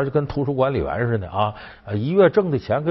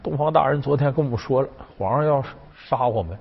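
lightly voiced petitioner, building higher and louder; little groom complaining; 5 semitones higher, 3 dB louder than usual. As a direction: start plain and build to an aggrieved protest. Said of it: "这侏儒说了". (小官儿向皇上诉苦，越说越高亢)

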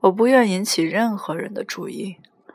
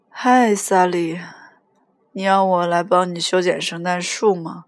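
put-on mildly drunken insistence; 3 dB louder than usual. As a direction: drag out the name and the question. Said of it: "你喝醉了".

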